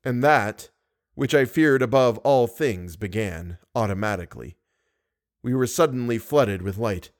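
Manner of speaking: measured audiobook reading; story narration. A narrator's reading. Narrator opens the chapter for listeners, storytelling.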